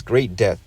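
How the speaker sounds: "great" leaned on before "death"; stress on "great". Real, not acted. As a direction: press on the word "great". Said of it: "don't put emphasis on words".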